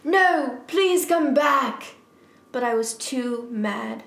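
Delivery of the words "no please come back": high, loud drawn-out plea; pleading shout. Acted. Draco begging girlfriend to come back, theatrical pleading shout. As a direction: beg her melodramatically to return. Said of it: "shouted Draco sadly".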